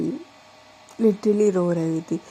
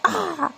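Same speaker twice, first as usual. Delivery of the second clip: scream; 7 semitones higher than usual. Acted. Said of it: "चिल्लाती है बहुत तेज".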